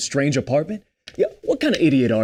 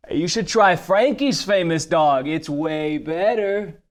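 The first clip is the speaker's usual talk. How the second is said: cocky come-on; slower than usual. Acted. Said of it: "calls out to them".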